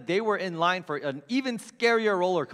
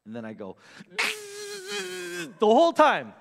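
strained squeal; 12 semitones higher, slower than usual. Retold or imitated. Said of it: "I do this".

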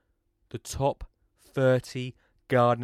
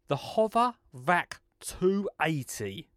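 cool product name; 2 semitones higher, 4 dB quieter, slower than usual. Shown as a demonstration. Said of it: "I don't know how to say it cooler".

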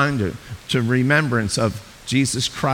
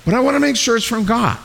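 doubting believer; 6 semitones higher than usual. Retold or imitated. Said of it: "like, you say".

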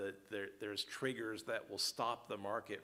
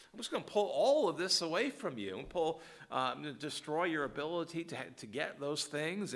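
a hint of a stern divine voice, higher and louder; voicing the Lord; 6 semitones higher, 4 dB louder than usual. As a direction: declare it as God speaking, firm. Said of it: "And so the Lord says".

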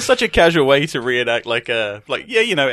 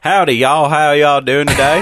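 put-on Southern drawl greeting; mock Southern accent; slower than usual. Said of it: "you should talk like that".

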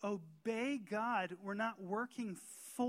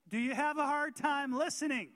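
louder, emphatic repeat; 4 semitones higher, 5 dB louder than usual. Shown as a demonstration. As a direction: question repeated louder and higher. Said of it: "I'll say that again".

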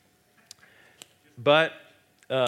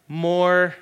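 hungry demand; 5 semitones higher, 8 dB louder than usual. Retold or imitated. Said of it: "my hunger is going like".

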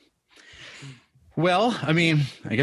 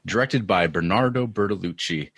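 podcast intro. Acted. Host returns from break, podcast intro read. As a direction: open the episode like a host.

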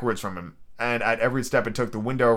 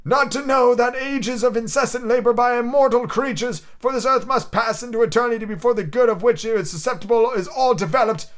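ghost voice; 10 semitones higher, 3 dB louder than usual. Acted. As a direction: intone it like a chained spirit. Ghost laments.

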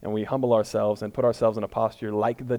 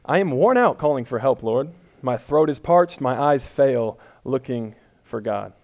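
louder, pleading scripture reading; dramatic psalm reading; 4 dB louder, slower than usual. Shown as a demonstration. Pastor reading a lament psalm, louder and pleading. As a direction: read it like a weary cry for help. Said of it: "let me try one more".

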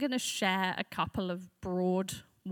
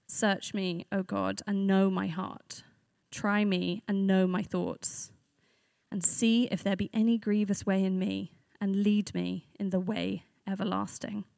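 scripture reading; 3 dB louder than usual. Acted. Reads psalm aloud as scripture.

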